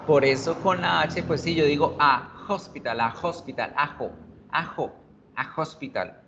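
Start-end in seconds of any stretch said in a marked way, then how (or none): 2.0-6.2 "a hospital" linked as "ajo-spital", H as jota; A joined to consonant. Shown as a demonstration. Teacher shows how fluency works, "a hospital" run together. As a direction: glue "a" onto the J sound of "hospital". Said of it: "Pego la A con la consonante".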